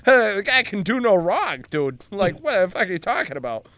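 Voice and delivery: high, loud mock Bostonian; Boston accent. Worker defending his movie hero, in a Boston accent. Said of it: "because the accent's out".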